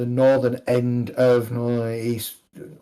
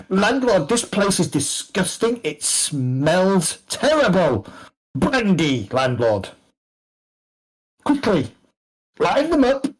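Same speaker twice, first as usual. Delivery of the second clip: higher-pitched haughty complaint; imperious fop; 6 semitones higher than usual. Acted. Fop ordering brandy from the landlord, imperious. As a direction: call out to a servant, drawing out the disgust.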